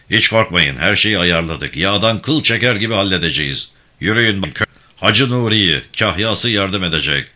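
a firm, lightly voiced gang chief giving orders; steady commanding tone, barely apart from the narration; commanding leader. İbrahim Bey reassures.

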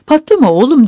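narrated cross holler; irritated shout. A narrator's reading. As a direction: shout it impatiently to whoever is at the door. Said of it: "diye bağırdı".

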